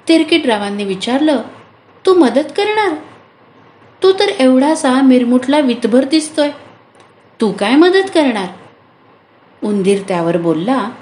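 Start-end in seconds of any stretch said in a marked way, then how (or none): 2.1-8.5 high incredulous question, mild scoff; can you really help, little one?; doubtful disbelief. Acted. Farmer doubts the tiny mouse can help, amused disbelief.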